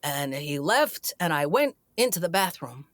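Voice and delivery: lightly imitated deadpan storyteller, long pauses; Chris Walken. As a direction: tell it haltingly, with a hint of his cadence. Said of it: "I do a terrible Chris Walken".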